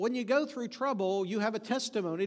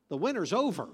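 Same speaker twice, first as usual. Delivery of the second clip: "over" stressed with a rise and fall; 3 dB louder, faster than usual. Shown as a demonstration. Preacher quoting that winter is past, stressing "over". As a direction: lean on the word "over". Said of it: "Emphasis on the word over".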